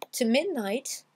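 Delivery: "to midnight" said as one word, t'midnight; one-word link. Shown as a demonstration. Teacher shows learners two words blended, TO MIDNIGHT as one. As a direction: melt TO into midnight. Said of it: "c'était un seul mot en plusieurs syllabes".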